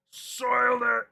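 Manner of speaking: high, loud mock despair; dramatic wail. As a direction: wail it like a ruined villain. Hammed dismay, repeated.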